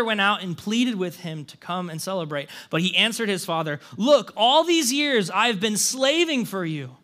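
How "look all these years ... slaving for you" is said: mildly angry, aggrieved complaint read aloud; understated resentment of a slighted son; indignant older brother. Acted. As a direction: air a grievance, stressing key words, building to an indignant question. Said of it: "The older brother became angry at this".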